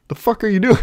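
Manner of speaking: high, incredulous exclamation; baffled, pitch shooting up, close to laughing; baffled outburst. Retold or imitated. Man to the screaming dog he pets, baffled outburst. Scolding dog while petting.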